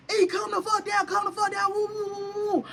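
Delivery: lightly voiced man urging someone down; imitated bystander. Retells bystander trying to calm fight.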